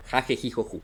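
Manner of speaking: "ja, je, ji, jo, ju" softly, with an airy J sound; H as Spanish J. Shown as a demonstration. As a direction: run quietly through "ja, je, ji, jo, ju" with sounded J. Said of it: "Si la H está antes de la vocal".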